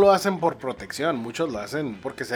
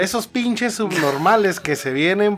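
louder, heated mock rant; 3 semitones higher, 5 dB louder than usual. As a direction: play up an angry rant about outsiders. Ranting about accent-keeping migrants.

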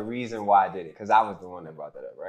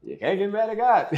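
emphatic; 11 semitones higher, 8 dB louder than usual. Real, not acted. Emphatic point in testimony.

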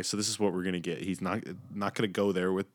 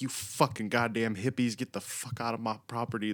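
higher mock yell, no real scream; half-volume rant, pitched up; retold angry screaming; 3 semitones higher than usual. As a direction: imitate an irate man cussing out trespassers. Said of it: "he starts screaming at 'em".

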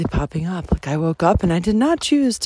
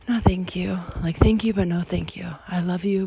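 gentle whisper. Real, not acted. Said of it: "declining the thoughts".

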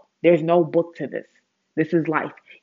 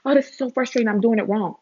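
higher, mock frustrated whine; whiny complainer; 6 semitones higher, faster than usual. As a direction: parody someone moaning they fail. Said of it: "I'll make suggestions to people and like".

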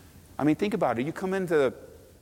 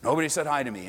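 mocking whine; faster than usual. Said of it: "Are you serious?".

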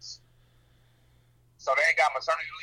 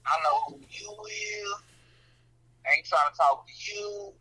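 higher-pitched mock dismissal; retold brush-off; 6 semitones higher than usual. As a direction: brush off a caller, imitated. Acts out call to bill collector.

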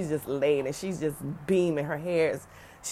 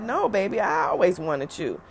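voicing mom; 2 semitones higher than usual. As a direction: play mom brushing off the idea. Mother voiced in retold phone call.

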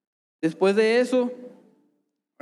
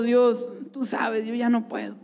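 slow weary prayer; 3 semitones higher, slower than usual. Retold or imitated. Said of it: "Me puse a orar".

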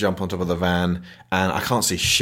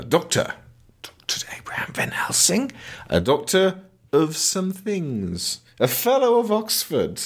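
mock Van Helsing; 9 semitones higher than usual. Mocking Russell Crowe introducing himself, whispery then high. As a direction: ham up the grand self-introduction. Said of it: "Jack Russell turns up and goes".

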